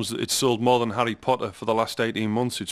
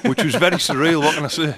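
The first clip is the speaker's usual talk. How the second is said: laughing; 6 semitones higher, 7 dB louder than usual. Real, not acted. Laughing at the surreal memory.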